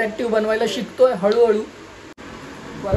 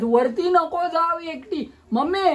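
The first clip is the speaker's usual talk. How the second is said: sing-song warning; 8 semitones higher, slower than usual. Real, not acted. Warning the child off stairs.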